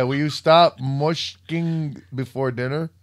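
put-on slow scolding Yiddish-accented grandma. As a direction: nag slowly in a Yiddish accent. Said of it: "like a Jewish grandma would yell".

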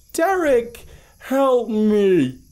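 eerie mimic call sinking in pitch on the last word; high creature cry that falls away at the end; inhuman dropping voice. A narrator's reading. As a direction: start very high and monotone, then slide downward. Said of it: "its voice dropped inhumanly low".

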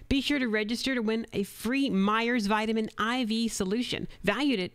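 bright, punchy commercial voice-over; radio ad read. Acted. Voice actor recording a spot for a diner, upbeat ad read. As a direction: sell the restaurant reopening like a local radio spot. Second take of clinic ad.

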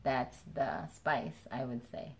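chewing with mouth partly full; speaking between bites; talking while chewing candy. Real, not acted. Seen 1: Hand holds candy at mouth between laughs; eating before too.

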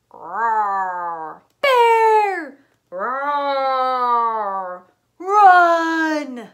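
loud frantic yells; panicked screaming. Acted. Fleeing guests screaming at the bear, panicked. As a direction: shriek and run.

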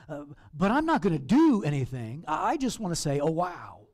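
complacent believer. Retold or imitated. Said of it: "and you go".

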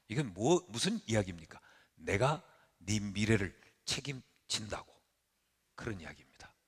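ordinary talk, nothing marked

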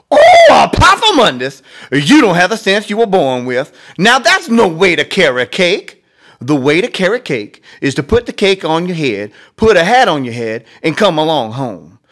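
high, loud exasperated mother scolding; mother lecturing her son, high and loud; exasperated mama. Acted. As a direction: lecture your boy like a fed-up mama.

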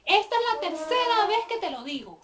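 sharp, loud mom scolding; exasperated mom nagging; scolding mother. Acted. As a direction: bark orders at the lazy daughter. Mother scolding daughter about trash.

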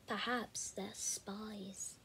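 slow conspiratorial whisper. Acted. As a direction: breathe it like a secret. Charlie building suspense.

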